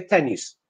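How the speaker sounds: "tennis" with a Polish i, "tenees"; "tennis" ending in "-nees"; Polish vowel. Shown as a demonstration. Teacher showing the Polish mistake in "tennis". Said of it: "they say".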